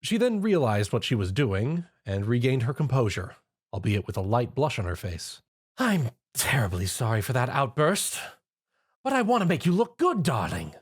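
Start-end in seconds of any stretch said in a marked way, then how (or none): 5.8-10.8 lightly voiced refined lady; apologetic but composed; Rarity voice. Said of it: "Rarity explained".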